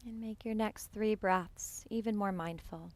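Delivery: calm, unhurried meditation voice with long pauses; guided meditation. Real, not acted. Yoga teacher settling students into breath awareness, guided meditation. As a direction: guide them gently into the breath, leaving space between phrases.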